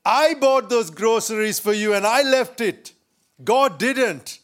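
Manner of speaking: spring out with a triumphant aha; gloating neighbour. Acted. Neighbour jumping out of the bush, mildly gloating. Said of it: "the neighbor jumped out of the bush and said".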